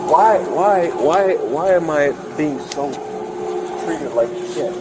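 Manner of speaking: words dragging, thick with drink. Real, not acted. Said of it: "slurred speech".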